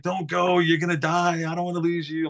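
high, mock-tearful pleading; mock crying sister. Sister begging him not to leave for boot camp, high mock sobbing. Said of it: "She's like".

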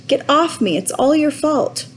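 high, tearful accusation; sobbing. A narrator's reading. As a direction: blame him through acted tears. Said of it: "sobbed Roderick".

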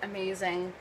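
talking through a mouthful of "so much fun"; chewing while saying "amazing"; mouth full. Real, not acted. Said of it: "I'm eating a Pop-Tart".

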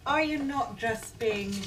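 usual speaking voice

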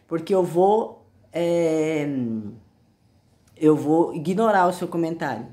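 hoarse, cracking voice from a sore throat; cracked voice. Real, not acted. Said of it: "essa voz de taquara rachada".

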